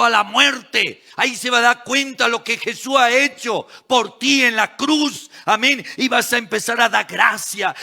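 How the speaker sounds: forceful preaching. Real, not acted. Preacher urging church to give thanks at the altar, impassioned.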